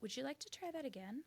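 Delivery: measured parent test; calm but loaded warning; pointed warning. Retold or imitated. Mom retelling her line to the son. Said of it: "And I was said".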